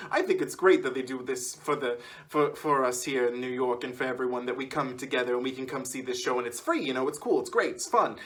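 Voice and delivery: lightly imitated Brooklyn woman; rough impression of a Brooklyn accent; thick Brooklyn accent. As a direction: have a go at a Brooklyn accent, sweet and chatty. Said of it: "she had the thickest Brooklyn accent".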